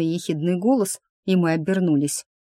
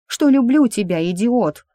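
shouted higher and louder, exasperated; angry shout; 6 semitones higher, 5 dB louder than usual. A narrator's reading. Girl yells her love at Bur, higher and louder. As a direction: yell the confession at him. Love confession yelled in anger.

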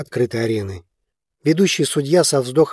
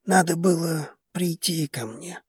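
softly, a gentle rebuke; quiet; 4 semitones higher, 6 dB quieter than usual. A narrator's reading. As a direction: say it softer, close. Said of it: "тихо произнёс глава дома Кахилосов". (тихо, с мягким упрёком)

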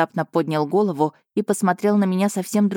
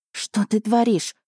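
higher, slowed mild squeak; a hint of a startled squeak; 4 semitones higher, slower than usual. A narrator's reading. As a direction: squeak out the question. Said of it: "пискнула я".

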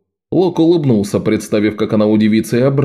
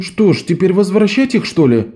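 sulky grumble; 8 semitones higher than usual. A narrator's reading. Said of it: "недовольно буркнул Лок".

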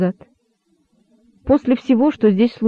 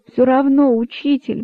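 lightly pleading, rising then dropping away; a touch of begging; 5 semitones higher than usual. Acted. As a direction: beg the teacher, a little higher. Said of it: "взмолился кролик".

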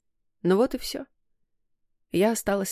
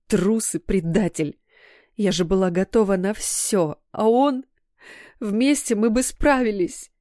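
growled anger; 2 semitones higher than usual. Acted. Daughter rages at her fiancé's cowardice, slow and bitter. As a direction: spit out the betrayal, rising. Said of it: "прорычала".

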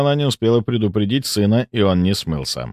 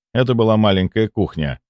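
ordinary delivery, nothing marked

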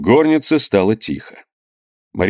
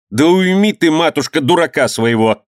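annoyed; 6 semitones higher than usual. A narrator's reading. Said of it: "сказала с досадой".

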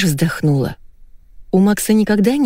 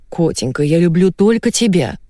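purring. Acted. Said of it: "замурлыкал Константин".

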